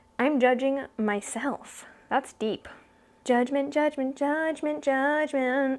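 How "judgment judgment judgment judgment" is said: put-on sassy, snarky, judgmental character voice. Speaker getting back into a judgmental female character's voice: sassy snarky character voice. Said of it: "trying to get back into the voice because it's difficult to be this sassy".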